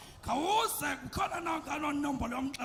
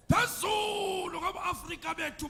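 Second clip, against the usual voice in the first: high shouted call; 5 semitones higher, 4 dB louder than usual. Acted. Praise poet call line.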